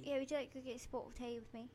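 quick mock British invitation; British accent. Shown as a demonstration. Host inviting co-host to tea, British accent. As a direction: put on an amateur British accent. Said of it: "I'm gonna do British".

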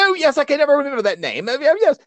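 high, quick put-on British accent; hammed-up, fussy British accent. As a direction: gush like a pretend Brit. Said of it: "talking with the British accent".

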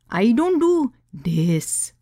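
put-on slow, firm Indian accent; thick Indian accent. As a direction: state it firmly, Indian accent. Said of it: "her thick Indian accent".

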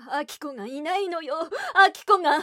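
panicked, crying out; 取り乱した叫び. Acted. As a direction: voice breaking into a slow wail. 母が動揺して娘の不在を叫ぶ. (泣き叫ぶように)

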